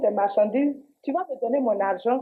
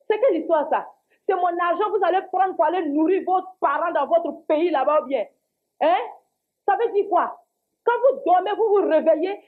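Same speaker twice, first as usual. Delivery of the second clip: a heated, indignant scolding; indignation en colère; 2 semitones higher than usual. Acted. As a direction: tell the shopkeeper off, voice slightly raised. Cliente furieuse contre le commerçant. (colère indignée)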